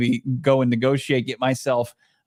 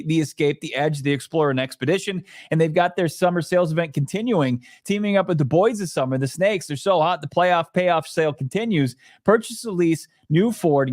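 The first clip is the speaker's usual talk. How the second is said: live ad read; 3 semitones higher than usual. Acted. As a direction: sell the truck like a live radio spot.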